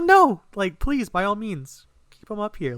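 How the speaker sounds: high, hurried-in protest of welcome; eager insistence. Retold or imitated. Acting his eager reply to her.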